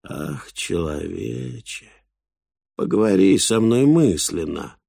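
slow, drawn-out creature voice; pleading boar. A narrator's reading. Boar asks the man for mind-talk, slow plea.

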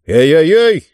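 loud, rising yelp of objection; protesting cry. A narrator's reading. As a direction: call out in alarmed protest. Bitten character cries out in protest.

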